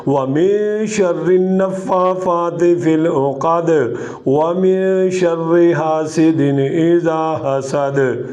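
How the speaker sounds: slow, drawn-out Quranic recitation. Shown as a demonstration. Qari reciting Surah Falaq as an example, slow recitation. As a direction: let each verse unfold slowly.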